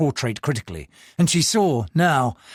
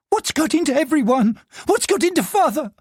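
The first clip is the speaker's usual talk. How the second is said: put-on higher, alarmed old servant; wailing servant; 13 semitones higher than usual. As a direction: fret aloud in panic.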